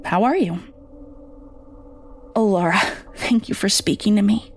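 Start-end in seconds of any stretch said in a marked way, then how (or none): 2.3-4.5 grateful and close to tears; tearful mother. Acted. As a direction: voice catching with a sob, relieved. Mother calls daughter after years.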